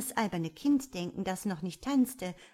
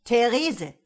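loud, sudden indignant cry of a name; auffahrend; 5 semitones higher, 10 dB louder than usual. A narrator's reading. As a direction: cut her off with a raised, warning shout. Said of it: "fuhr Karl Irrlicht auf". (laut und empört auffahrend)

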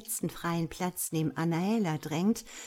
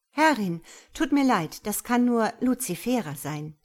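nervous, slightly raised apology; a touch of fluster, a little louder; 4 semitones higher, 6 dB louder than usual. Acted. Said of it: "meint Petra nervös".

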